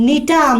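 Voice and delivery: নিটাম said with a plain n at the start and no g sound; teacher showing students নিটাম with no g; silent G in Gnetum. Shown as a demonstration. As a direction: say নিটাম beginning straight on n, no g. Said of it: "জিটা উচ্চারণ হবে না".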